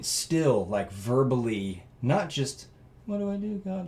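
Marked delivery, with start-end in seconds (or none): 3.1-3.9 mock yelling. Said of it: "Like, I'm, like, yelling".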